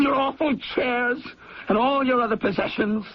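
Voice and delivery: bitter accusing rant at his mother; furious tirade. Acted. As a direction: lash out at her with hatred. Son rages at his mother.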